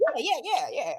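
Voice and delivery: mock-casual string of yeses; nonchalant brush-off. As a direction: rattle off the yeses dismissively, amused. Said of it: "It makes everything so nonchalant".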